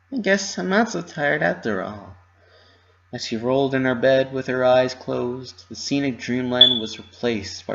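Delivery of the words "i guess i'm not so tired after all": Pinky musing. A narrator's reading. Pinky realises.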